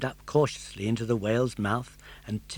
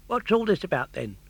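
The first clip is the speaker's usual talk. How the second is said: friendly fish voice; 6 semitones higher than usual. Acted. Tunny fish speaks.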